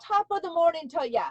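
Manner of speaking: playful mock Irish greeting; Irish accent. Shown as a demonstration. Host showing off her Irish accent to her guest, playful Irish. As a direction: put on a light, lilting Irish accent. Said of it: "Here's my Irish accent".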